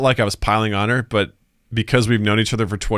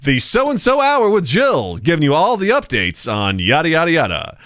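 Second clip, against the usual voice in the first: show host sign-off; 4 semitones higher than usual. Retold or imitated. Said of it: "And this has been".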